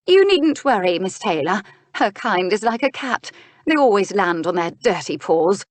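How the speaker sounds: mild aristocratic scorn; scornful duchess. Acted. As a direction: sneer politely, a touch of disdain. Duchess scornful of missing woman.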